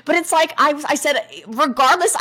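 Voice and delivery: slow, high words through real laughter; laughing. Real, not acted. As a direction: talk on while still cracking up. Still laughing at own cow joke.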